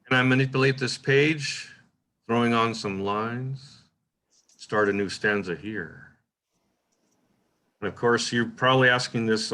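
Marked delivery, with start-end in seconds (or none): 0.0-6.2 slow, measured read with long pauses; even slower. Shown as a demonstration. Teacher demonstrating punctuation slowing the poem, even slower. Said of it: "Even slower".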